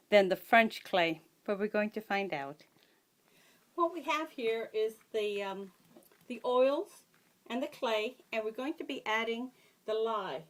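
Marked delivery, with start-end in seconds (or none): 3.8-10.4 muffled behind a face shield. Real, not acted. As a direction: talk muffled through a shield. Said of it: "If I sound muffled, it's because I have my shield on".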